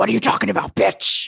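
rough, creaky, rasping voice. Showing the others a bad Al Pacino impression. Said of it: "that's my whole im-, impersonation".

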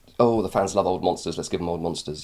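ordinary talk

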